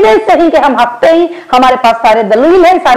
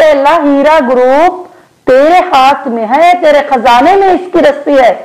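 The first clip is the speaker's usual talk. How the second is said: earnest prayer. Real, not acted. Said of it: "अल्लाह से मैं यही दुआ करती हूँ".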